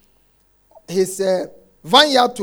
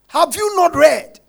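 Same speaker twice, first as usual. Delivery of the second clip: loud preaching; 6 semitones higher, 5 dB louder than usual. Real, not acted. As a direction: hammer the question home. Preaching climax.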